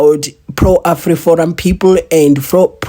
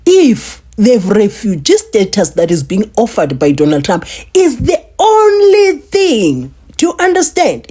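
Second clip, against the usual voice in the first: emphatic; 3 semitones higher than usual. Retold or imitated. Retelling the refugee offer, high and strained.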